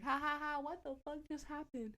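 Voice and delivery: high mock laughter into the question; imitated cracking up. John cracking up after the crash, imitated laughter. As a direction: play it as amused disbelief. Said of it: "cracking up. Like, he's laughing".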